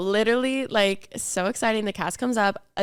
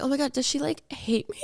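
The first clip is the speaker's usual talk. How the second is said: small, higher, softer worried voice; mock worry; 4 semitones higher, 5 dB quieter than usual. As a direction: shrink back in playful self-doubt. Retold worry she is disliked.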